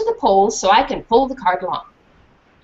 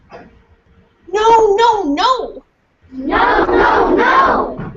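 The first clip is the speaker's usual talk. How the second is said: desperate protest; 12 semitones higher, 4 dB louder, much slower than usual. Acted.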